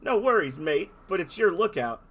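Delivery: loud, hammed-up Australian bloke; Australian accent. Dolphin in an Australian accent complaining about the lighthouse. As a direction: threaten like a rough Aussie larrikin. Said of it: "those players who don't speak Australian".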